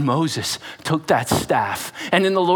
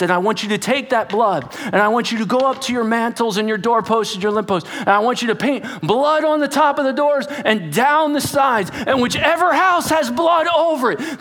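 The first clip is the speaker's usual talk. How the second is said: building intensity; 7 semitones higher than usual. Acted. Preacher building God's instructions.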